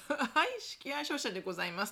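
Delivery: polite phone greeting; customer service voice. Retold or imitated. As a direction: answer like a company phone operator. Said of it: "って出るところを".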